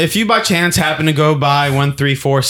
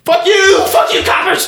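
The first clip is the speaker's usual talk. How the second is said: high, loud yell at the cops; defiant shout; 5 dB louder than usual. Pretend. Robber yelling at arriving police, defiant shout.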